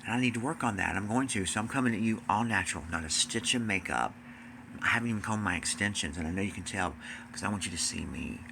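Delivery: usual speaking voice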